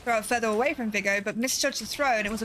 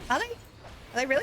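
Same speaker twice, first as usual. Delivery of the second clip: sarcastic mock; 4 semitones higher than usual. Mocking game villain's threat.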